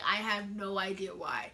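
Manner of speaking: breathy whisper to the camera; whispered aside. Real, not acted. Vlogger confiding to viewers, whispered. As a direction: let it slip out under your breath. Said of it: "I'm so hyped today".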